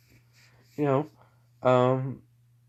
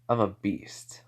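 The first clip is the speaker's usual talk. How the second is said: whispered, softer confession; whispered secret; 3 semitones lower, 5 dB quieter, slower than usual. Acted. Naruto confiding his secret to the others, whispered. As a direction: let them in on a dark secret.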